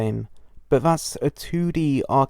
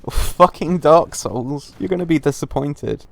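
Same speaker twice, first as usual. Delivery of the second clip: shouting; 2 semitones higher, 4 dB louder than usual. Real, not acted. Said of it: "I just shouted so loud".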